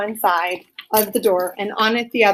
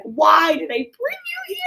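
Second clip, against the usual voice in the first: mock gloom; 8 semitones higher than usual. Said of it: "He's like".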